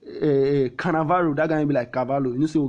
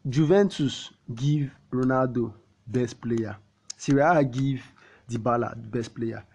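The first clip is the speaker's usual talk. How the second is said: slow, deliberate. Shown as a demonstration. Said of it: "reason this thing o".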